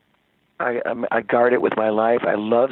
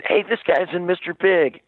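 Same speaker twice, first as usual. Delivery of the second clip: joking boast; 7 semitones higher than usual. Retold or imitated. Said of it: "as a joke".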